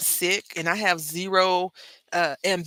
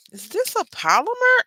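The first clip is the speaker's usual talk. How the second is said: worried whisper; 14 semitones higher, 6 dB louder than usual. Real, not acted. Worried check on stamp.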